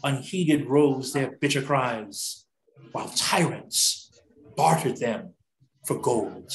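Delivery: measured poem reading with long pauses between phrases; solemn poem recitation. Acted. Reading The Slave Auction to the group, solemn recitation. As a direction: recite it gravely, phrase by phrase, letting each land.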